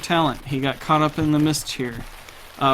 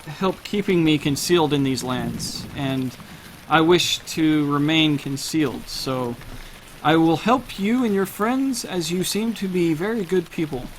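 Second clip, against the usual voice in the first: guarded carnival man. Acted. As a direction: lightly play an earnest man in hiding, word by word. Game master playing Rictavio.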